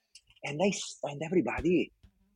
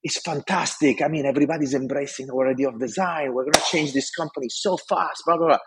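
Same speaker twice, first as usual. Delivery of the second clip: higher, eager and breathless-sounding pitch; raised, enthusiastic retold pitch; excited report; 5 semitones higher than usual. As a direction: replay your young excited self to the boss. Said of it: "I tell him".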